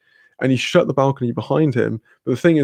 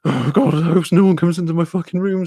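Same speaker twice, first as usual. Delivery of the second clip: higher, mildly panicky retelling; mock freaking out; 5 semitones higher than usual. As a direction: act out fretting aloud. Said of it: "I'm still freaking out".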